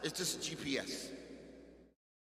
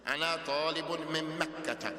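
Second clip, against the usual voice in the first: emphatic and proud; 3 semitones higher, 6 dB louder, faster than usual. Shown as a demonstration. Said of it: "with everything you have of being emphatic".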